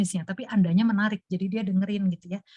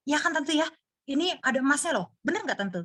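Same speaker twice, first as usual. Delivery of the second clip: higher, coaxing saleswoman voice, a light touch; coaxing sales talk; 4 semitones higher than usual. Retold or imitated. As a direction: win the auntie back with the gold. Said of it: "langsung bilang".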